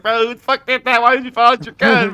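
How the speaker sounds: high, loud mock disbelief; retold outburst. Gamer telling friend off for pulling out gun, retold exasperation. Retelling alarm at a gun noise.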